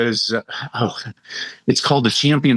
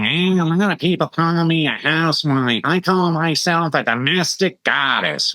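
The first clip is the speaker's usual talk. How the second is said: Roseanne voice; 5 semitones higher than usual. Retold or imitated. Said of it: "her, a nasally voice".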